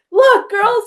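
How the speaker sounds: put-on high, loud call to the girls; rally the daughters, pitch way up. Mother rallying her daughters after finding the umbrella, high and loud. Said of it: "I'm like".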